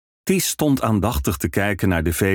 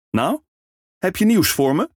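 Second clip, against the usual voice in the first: eager ferryman; 11 semitones higher than usual. Acted. Ferryman asks for news.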